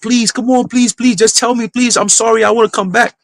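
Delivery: high, desperate begging without shouting; imitated frantic pleading. Ex carried off by a bodyguard, mock frantic pleading. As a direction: plead as if being dragged away, acted. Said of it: "kicking and screaming".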